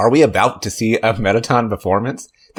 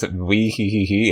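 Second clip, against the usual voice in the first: spider giggle; 3 dB quieter, slower than usual. Acted. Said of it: "that's how spider sounds".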